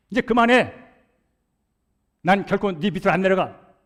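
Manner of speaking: 아내에게 버럭 소리치는 재연; 높고 크게 터지는 고함, 점점 거세지며; shouting at wife. Retold or imitated. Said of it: "라고 소리를 지르는 거예요". (아내에게 화가 나 "그만해"라고 소리치는 남편의 고함)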